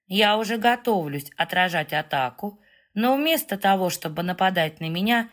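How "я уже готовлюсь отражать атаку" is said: plain reading voice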